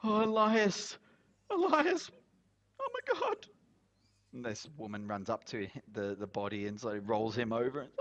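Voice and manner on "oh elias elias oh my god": high, breaking cries of a grieving wife; distraught widow. Acted. Widow finding her husband's body, high anguished cries. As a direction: call his name in shocked grief.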